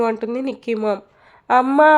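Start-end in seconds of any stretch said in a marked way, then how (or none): 1.5-1.9 louder, higher whine of protest; a lightly voiced daughter's whining cry; whiny protest.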